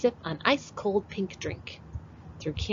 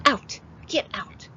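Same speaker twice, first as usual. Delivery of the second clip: Granny shouting; 6 semitones higher than usual. Acted. Granny chasing dog with broom.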